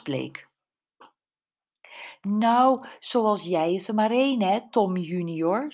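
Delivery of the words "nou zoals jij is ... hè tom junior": affected woman's voice. A narrator's reading. Woman on the video addressing Tom junior, affected voice. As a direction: put on an affected woman's voice, pitched up. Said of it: "een geaffecteerde vrouwenstem".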